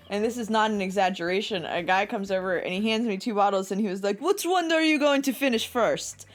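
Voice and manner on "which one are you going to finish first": higher-pitched imitated Russian guest; amateur Russian accent; attempted Russian accent. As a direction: ask it in a rough Russian accent. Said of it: "I can't do a fucking Russian accent".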